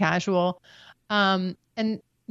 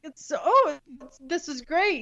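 mock breezy boyfriend; 5 semitones higher than usual. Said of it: "And now you're like".

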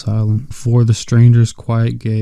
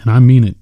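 "mean" pressed louder with a falling close; firm; 5 dB louder, faster than usual. A narrator's reading. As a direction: insist on "mean", flat falling end. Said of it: "George repeated firmly".

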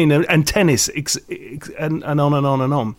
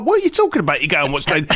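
retold disbelief; 2 semitones lower, faster than usual. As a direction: lightly act out baffled disbelief, pitched up. Retold reaction to absurd invitation.

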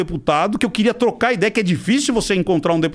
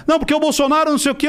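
mock heated objection; 8 semitones higher, faster than usual. Mimics Arthur's heated reply.

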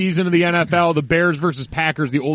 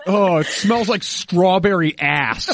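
slow, nose pinched shut; words squeezed through a held nose; pinching nose; 3 semitones higher, slower than usual. Real, not acted. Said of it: "I'm holding my nose".

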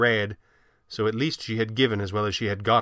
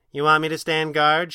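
quipping; 5 semitones higher, 5 dB louder than usual. A narrator's reading. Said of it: "she quipped without thinking".

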